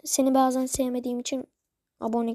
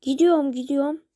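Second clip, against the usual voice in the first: "Gidiyorum gidiyorum" said louder as a threat; 5 dB louder than usual. Shown as a demonstration. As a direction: repeat "Gidiyorum gidiyorum" louder to push him into subscribing. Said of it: "Olmuyor şu an ha".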